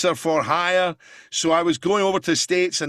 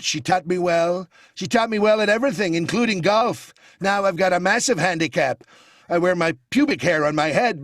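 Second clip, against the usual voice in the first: Trump impression. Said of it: "And then you've got the Donald".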